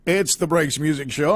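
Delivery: bright announcer read of the show name; radio host intro. Acted. Host opening his radio show, upbeat announcer voice.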